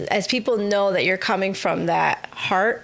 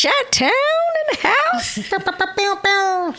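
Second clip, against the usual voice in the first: hype call; 10 semitones higher, much slower than usual. Real, not acted. Hyping up guest's hometown.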